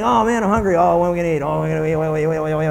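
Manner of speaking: imitating a hungry whiner; grumbling. Hungry person wanting to eat, grumbling. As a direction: grumble on and on, running into a mumble. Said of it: "We grumble about everything".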